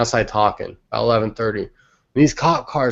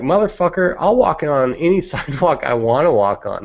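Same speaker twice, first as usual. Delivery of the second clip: higher-pitched, defiant retort with a laugh creeping in; retold indignation; 5 semitones higher than usual. Telling off the cop over the sidewalk, mock indignant. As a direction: act out losing your temper, half amused. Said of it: "I almost lost my shit".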